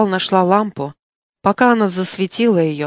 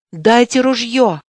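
insistent demand; 4 semitones higher, 4 dB louder, slower than usual. Acted. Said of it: "повторил Дюшен".

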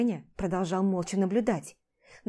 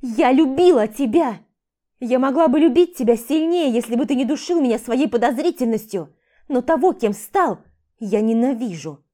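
loud shout; 3 semitones higher, 7 dB louder than usual. Acted. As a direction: scream it into his face. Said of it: "громко крикнула". (громкий надрывный крик)

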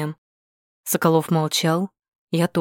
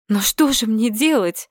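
desperate cry; 5 semitones higher than usual. A narrator's reading. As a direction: cry out at the end of her rope. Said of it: "в отчаянии вскричала я".

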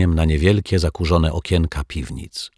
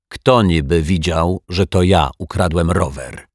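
a hint of a snarl, barely raised; mildly voiced zombie growling back; growled. Zombie denies stealing the detective's bike, lightly growling. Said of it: "warknął martwiak".

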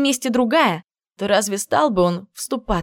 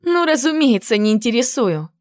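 sarcastic retort. Acted. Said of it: "парировала я".

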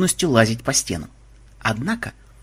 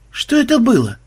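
high, hesitant question; acted bewildered query; unsure; 11 semitones higher, 4 dB louder than usual. A narrator's reading. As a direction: ask uncertainly, voice pitched right up. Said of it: "неуверенно спросил один".

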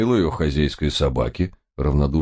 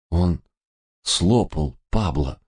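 quiet horror; slower than usual. A narrator's reading. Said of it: "тихо ужаснулся я".

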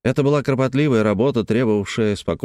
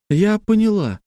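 high, sudden cry of realisation; pitched well up, excited; exclaiming; 11 semitones higher than usual. A narrator's reading. Woman working out the garbled message, exclaiming. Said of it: "воскликнула Элли".

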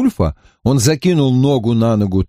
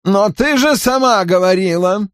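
displeased tone; 8 semitones higher than usual. A narrator's reading. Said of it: "весьма недовольным тоном".

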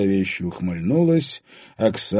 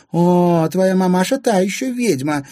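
high, loud, blunt gossip; 11 semitones higher, 7 dB louder than usual. A narrator's reading. Anfisa slandering his mother to Timofey, blunt. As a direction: say it outright, pitched up. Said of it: "без обиняков заявила Анфиса".

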